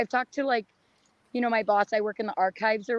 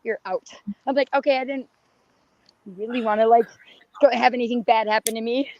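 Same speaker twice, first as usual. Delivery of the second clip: hoarse, worn-out voice; rough voice that is giving out; losing her voice. Real, not acted. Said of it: "Sorry, I'm losing my voice".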